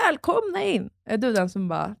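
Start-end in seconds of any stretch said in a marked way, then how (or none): 0.1-0.9 playful retold holler; mock shouted welcome. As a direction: sing out a welcome like an eager host. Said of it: "när de skriker så här".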